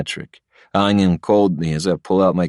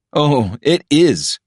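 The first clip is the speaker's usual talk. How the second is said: slow, higher snap; snapped; 9 semitones higher, 4 dB louder, much slower than usual. A narrator's reading. Patrick snapping at Ilya, mild slow snap. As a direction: bite back, drawing it out. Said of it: "he snaps".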